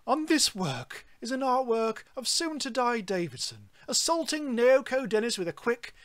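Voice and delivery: pompous art critic reading; snooty arts voice. Pretend. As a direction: read it like a posh gallery guide. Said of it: "If I'm gonna do a snooty arts voice".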